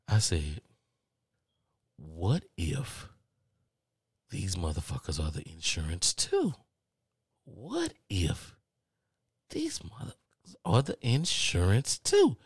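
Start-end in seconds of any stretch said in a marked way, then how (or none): 2.0-6.5 low, hushed, suspenseful wondering; dawning dread. Acted. Caller on hold suspects same company is insurer, hushed dread. 7.4-12.4 high, drawn-out panicky wondering; heightened dread. Acted. Caller on hold suspects same company is insurer, high-pitched dread.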